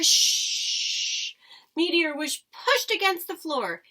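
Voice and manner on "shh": sharp whispered shh; shushing. Acted. Stowaway mouse hiding under the seat, whispered shush. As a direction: hush the listener as if hiding.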